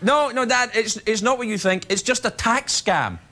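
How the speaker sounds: mildly pleading explanation, slowing at the end; lightly acted reassurance to a parent; placating son. Son explaining himself to his dad, placating.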